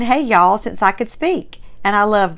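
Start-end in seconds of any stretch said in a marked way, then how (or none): 0.0-0.6 "Hey, y'all" with a Southern drawl, hey stressed and falling; the signature Southern hey y'all; Southern greeting. Shown as a demonstration. Host showing viewers her lifelong Southern greeting. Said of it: "my greeting has always been".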